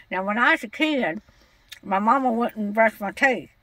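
put-on cranky old lady voice. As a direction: play a stubborn old woman customer. Caller holds an old lady voice.

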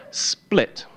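breathy whispered "split.". Retold or imitated. Telling the audience his trousers tore, a hushed "split.". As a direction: drop to a hush on "split.".

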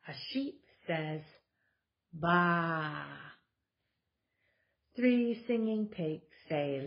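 lively, sing-song picture book reading; reading to children. Acted. Mom reading a board book to her kids, animated storytelling. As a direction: read it out like story time for toddlers.

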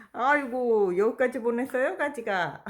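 loud, excited praise for a pet; talking to a dog. Real, not acted. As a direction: cheer the dog on loudly.

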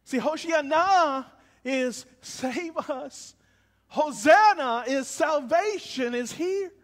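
emphatic contrast. Shown as a demonstration. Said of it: "contrasting the two words".

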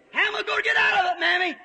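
high, fast eager question; childlike asking how to escape; eager little eaglet. Acted. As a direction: eaglet calling up to mother. Eaglet pleads to mother.

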